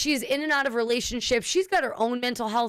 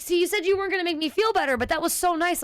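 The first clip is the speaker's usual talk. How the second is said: high mock-sweet mom; 6 semitones higher, faster than usual. Mother gushing, retold.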